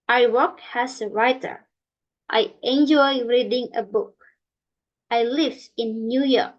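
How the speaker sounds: each sentence ends falling, on "writer", "book", "New York"; falling statement intonation. Shown as a demonstration. Teacher demonstrates statements for learners, falling tone on "writer", "book", "New York". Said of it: "tone used at the end of the sentence is a fall".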